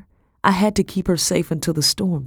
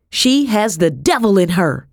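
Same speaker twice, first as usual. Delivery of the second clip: high, loud accusing cry; Madam's hysterical outburst; frantic accusation; 4 semitones higher, 4 dB louder than usual. A narrator's reading. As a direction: accuse her in a raised, frantic voice. Madam raging, broom over head.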